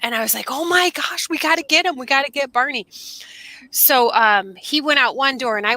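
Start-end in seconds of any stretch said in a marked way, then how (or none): 0.5-2.9 higher-pitched mild panic; retold alarm. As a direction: act out an urgent fluster. Retelling her panic.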